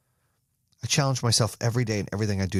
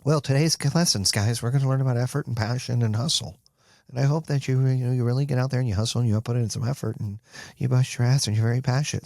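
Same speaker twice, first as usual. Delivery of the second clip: mock bland teacher. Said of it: "I can't go".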